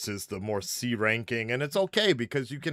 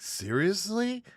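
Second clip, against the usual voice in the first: slow disbelief; 8 semitones higher, much slower than usual. Retold or imitated. Imitating a moviegoer in disbelief.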